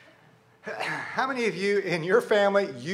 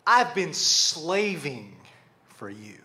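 slow, heavy grievance, dropping away at the end; resentful anger; 4 semitones lower, slower than usual. Acted. Son complaining to his father, bitter resentment. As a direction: lean slowly on SLAVING, then drop. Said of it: "I want you to hear anger in this".

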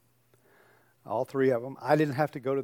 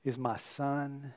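imagined heavenly voice; 11 dB quieter than usual. Acted. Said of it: "some voice saying".

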